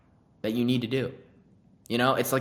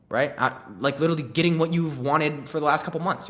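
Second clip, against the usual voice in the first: higher, louder, confident enthusiasm; confident, upbeat close; 4 semitones higher, 4 dB louder than usual. Shown as a demonstration. Salesman closes a hesitant prospect with loud confident enthusiasm. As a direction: sell it with bold conviction. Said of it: "You could say it like that".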